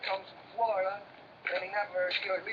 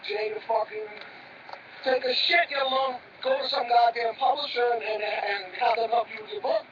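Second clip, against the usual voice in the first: angry yelling; 3 semitones higher, 3 dB louder than usual. Acted. Brother refuses, angry argument.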